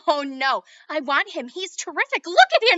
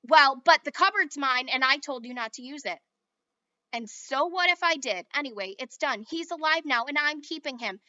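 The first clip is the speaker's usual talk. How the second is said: loud heated squabble; kids' quarrel; 3 semitones higher, 9 dB louder than usual. A narrator's reading. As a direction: argue hotly over the toy. Children quarrel.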